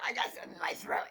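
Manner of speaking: fast, hushed whisper; whispered to the big guy leaning close. Pretend. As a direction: lean in and whisper it quick.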